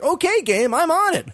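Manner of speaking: high, gung-ho mock obedience; eager compliance. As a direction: take the order with exaggerated eagerness. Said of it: "I'm like".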